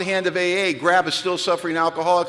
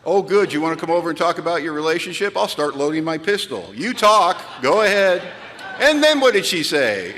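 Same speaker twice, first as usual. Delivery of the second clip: mock eager sponsor; 2 semitones higher, 4 dB louder than usual. Sponsor greeting relationship talk, loud sarcastic glee. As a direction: play the sponsor faking delight.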